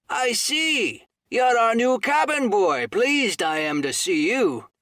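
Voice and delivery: high, loud startled exclamation; a sudden loud Oh of surprise; quite loud. Acted. Silver spots the squire's letter, loud and startled. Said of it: "said he, quite loud".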